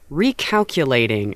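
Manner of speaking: measured GPS announcement. Retold or imitated. GPS telling driver of new route, robotic announcement. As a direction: imitate a sat-nav, syllable by syllable. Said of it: "when your G P S goes".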